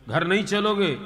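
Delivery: a pushy wife voice; wife's voice. Acted. Wife questions chanting husband. (पत्नी की ऊँची आवाज़)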